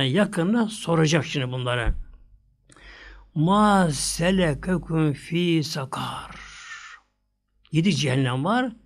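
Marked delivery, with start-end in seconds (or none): 3.3-6.4 drawn-out Quranic chant of the verse; slow Quran recitation; slow Arabic recitation. Acted. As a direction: recite the Arabic slowly, as in prayer.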